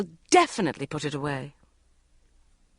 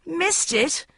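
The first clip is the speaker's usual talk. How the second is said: shocked; 11 semitones higher than usual. A narrator's reading. Shocked at missing interview.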